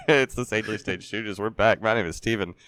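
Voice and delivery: rough, hoarse voice. Real, not acted. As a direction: voice worn out and hoarse. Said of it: "my voice is a little shot today".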